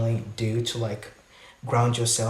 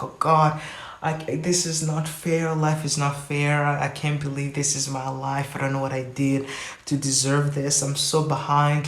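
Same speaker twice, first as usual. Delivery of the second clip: higher, whiny mock self-pity; hammed-up wallowing, feeling sorry for herself; 3 semitones higher than usual. Mocking how people whine that they are behind in life, hammed-up self-pity. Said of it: "being like".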